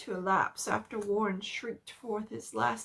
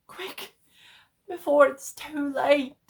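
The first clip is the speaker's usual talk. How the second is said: hopeless resignation; 5 semitones higher, 10 dB louder than usual. A narrator's reading. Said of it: "a softer quality as of hopeless resignation".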